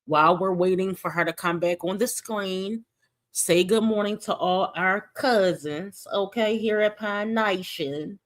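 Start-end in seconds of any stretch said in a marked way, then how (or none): 3.3-8.2 a hint of a slow Southern drawl; lightly Southern, slowed down; Southern accent. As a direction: ease into a light Southern greeting. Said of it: "that's an accent that I might do today".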